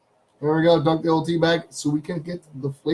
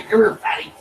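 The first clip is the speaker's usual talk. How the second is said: calling the dog; 4 semitones higher than usual. Real, not acted.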